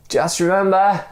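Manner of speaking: high shouted call; shouted reminder. Acted. Stranger shouting up from below, high firm call. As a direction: call up firmly. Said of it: "shouted the other man".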